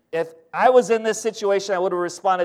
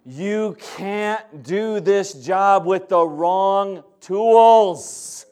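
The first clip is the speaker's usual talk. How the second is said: voice of God; much slower than usual. Retold or imitated. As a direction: speak down gently as God to a son. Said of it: "I felt like the voice of God".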